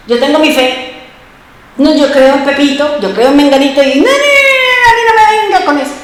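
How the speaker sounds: brushing off the preacher, pitch jumping up on the noes; the old stubborn self waving it away; rejecting dismissively. Retold or imitated. Imita su antigua negativa a Cristo. (rechazo burlón imitando su antiguo yo, con los no muy agudos)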